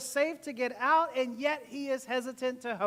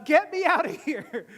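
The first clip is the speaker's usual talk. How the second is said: loud, raised mock desperation with a laugh; losing it; 4 semitones higher, 8 dB louder than usual. Stuck on the boat with Noah, losing it. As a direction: cry out comically to escape. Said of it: "you start losing it".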